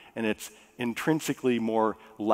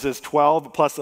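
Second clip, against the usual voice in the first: ordinary talk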